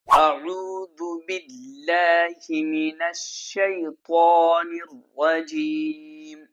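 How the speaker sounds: slow, measured tajweed recitation; slow melodic Quran chant. Shown as a demonstration. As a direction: recite it slowly like a qari.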